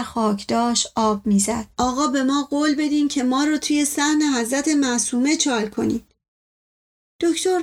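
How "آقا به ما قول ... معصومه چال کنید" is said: dying man's last request; plaintive moaning. Acted. Servant asks master for a burial place, moaning plaintively. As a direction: plead pitifully, as if dying.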